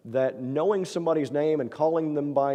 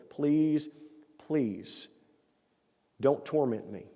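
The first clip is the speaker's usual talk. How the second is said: mild pleading; 3 dB quieter, much slower than usual. Acted. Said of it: "he's begging".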